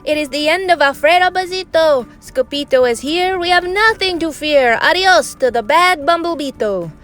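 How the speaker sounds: high, lilting cheer; celebrating crowd. A narrator's reading. Chimichangos celebrating their hero's arrival, high jubilant chant.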